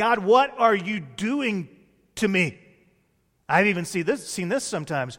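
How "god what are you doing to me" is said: put-on, accusing, aggrieved, drawn-out, angry voice. Acting out people who are angry at God: imitating someone yelling at God. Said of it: "we start yelling at God".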